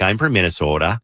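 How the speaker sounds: lightly imitated Minnesota accent; mild Minnesota accent. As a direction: retell it with a touch of Minnesota accent. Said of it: "got a little bit of a Minnesota accent".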